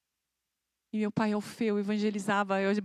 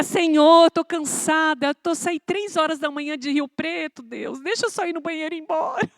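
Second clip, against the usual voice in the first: loud, higher-pitched tired complaint; exasperated pleading; 7 semitones higher, 9 dB louder than usual. Retold or imitated. Tired traveller begging God for the bathroom, loud exasperated protest. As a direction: plead wearily with raised voice.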